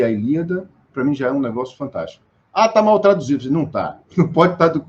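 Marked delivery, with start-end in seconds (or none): 2.5-3.5 mocking complainer. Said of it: "o pessoal reclama muito".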